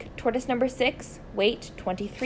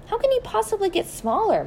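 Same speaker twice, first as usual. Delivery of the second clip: Mrs Silver voice; 12 semitones higher than usual. Acted. Mrs Silver asks, puzzled.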